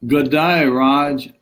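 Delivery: mock Aussie greeting. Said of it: "Those Aussies are pretty colorful people".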